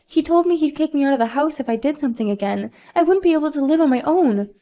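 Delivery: high, loud, whiny begging; pleading spoiled mom. Acted. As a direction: beg her not to call daddy. Sophia begs not to be reported.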